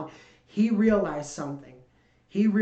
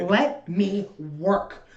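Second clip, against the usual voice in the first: drawn out plea; much slower than usual. Retold or imitated. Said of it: "This club is giving me".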